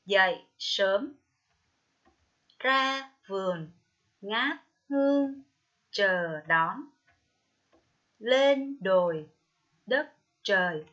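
"Dậy sớm", "ra vườn" slowly, each word drawn out and fully sounded; careful word reading. Shown as a demonstration. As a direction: read "Lên đồi", "đất trời" as separate, slow model words. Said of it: "đọc đúng các từ sau đây". (đọc mẫu "ngát hương", "chờ đón" chậm, rõ từng tiếng)

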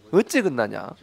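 exasperated Jeolla-style question, falling at the end; Jeolla dialect. Shown as a demonstration. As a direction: demonstrate a Jeolla grumble. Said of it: "이런 표현들이 있어요".

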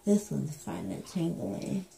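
talking around gauze; biting on gauze while speaking; mouth full. Real, not acted. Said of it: "I'm biting on it".

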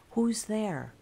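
loud demanding shout; husband confronting the unseen child. A narrator's reading. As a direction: demand an answer, hard. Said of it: "I demanded".

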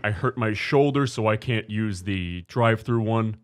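slow, drawn-out complaint; lightly voiced entitled woman; mock whiny Karen. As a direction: drag it out like a put-upon customer. Imitating the Karen's whine.

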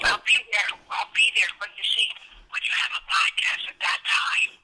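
angry, low talking voice, not a whisper; villainous low anger. Real, not acted. Angry caller told to whisper in traffic, villainous low voice. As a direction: keep it low and menacing while fuming. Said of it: "it sounds really angry because".

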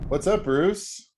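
high, slow sing-song hello; silly high greeting. Acted. Playful greeting to co-host.

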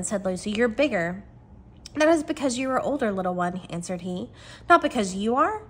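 expressive read-aloud from a novel; animated storybook reading; story narration. Acted.

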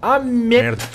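shrill swearing at the game; high-pitched rage curse; raging gamer. Real, not acted. (xingando o jogo com raiva)

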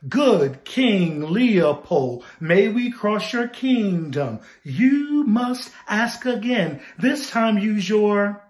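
slow, firm rhythmic chant; talking voice. Shown as a demonstration. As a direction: speak the verse slowly on a steady beat. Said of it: "talking voice".

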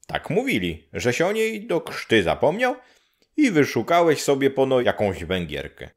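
put-on a matter-of-fact old neighbour.

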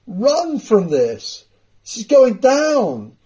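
fervent preaching. Real, not acted. Preacher urging flock to run.

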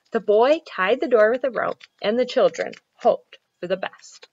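put-on measured storytelling for children; story narration. A narrator's reading. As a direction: read it out clearly like a picture book. Reads a children's story aloud.

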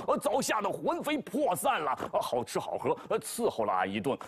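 fawning pig voice, sly; Zhu Bajie boasting. Acted. Bajie spins lies to Tang Seng, fawning. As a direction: brag to the master with a wink.

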